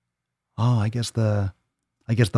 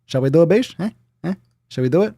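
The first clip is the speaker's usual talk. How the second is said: hype; 7 semitones higher, 5 dB louder, faster than usual. Real, not acted. Hyping swole card.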